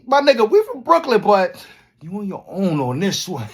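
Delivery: high, loud hailing; calling out. Retold or imitated. Hailing the Brooklyn crew for backup, loud. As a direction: shout across to the crew. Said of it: "going up to Brooklyn niggas like".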